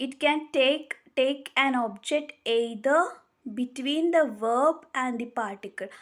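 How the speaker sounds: very slow, word by word, for note-taking; slow dictation. Shown as a demonstration. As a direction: spell the rule out slowly so students can write it. Dictating the rule slowly.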